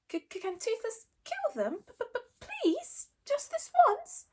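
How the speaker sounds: high stuttering plea; begging little dragon. Acted. Toothless begging Hiccup to let him kill, stuttering plea. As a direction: beg like a tiny dragon.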